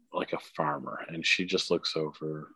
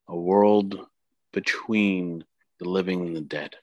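grandmother spirit voice. Acted. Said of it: "She's like".

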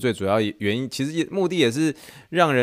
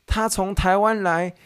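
excited husband; 10 semitones higher than usual. Retold or imitated. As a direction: call your wife over in disbelief. Translating the husband in same voice. (丈夫惊奇地大声叫太太)

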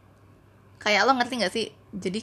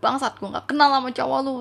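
mildly irritated outburst, a bit raised; retold annoyance; 4 semitones higher, 4 dB louder than usual. Telling off a stranger over her boyfriend, annoyed. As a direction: replay being fed up, half in earnest. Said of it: "udah sebel gitu kan".

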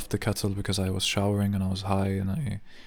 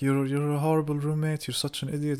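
a higher mock scolding; mock insult; 6 semitones higher than usual. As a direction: tease him in a raised voice. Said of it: "Then I was like".

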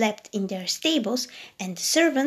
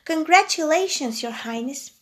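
excited cheer; 5 semitones higher, 5 dB louder than usual. Acted. Guests cheer at christening.

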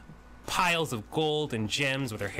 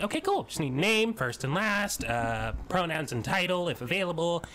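chirpy form reading; 5 semitones higher than usual. Acted. Tiny woman reads form.

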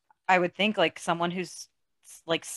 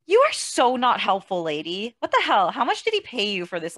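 exasperated; 2 semitones higher, 4 dB louder than usual. Real, not acted. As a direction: tell off the useless lady. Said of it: "ranting at the therapist".

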